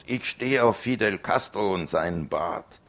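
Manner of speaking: "Ich stehe auf Fidel Castro" yelled high and loud; loud defiant yell; bellowed provocation. Acted. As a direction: shout it to provoke. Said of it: "ich brüllte drauf los".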